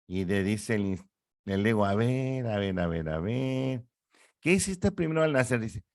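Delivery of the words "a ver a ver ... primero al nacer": higher, quick coaxing "a ver"; questioning ego voice. Acted. Ego asking the instinct what it did at birth, higher coaxing voice. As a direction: play the ego coaxing the baby along.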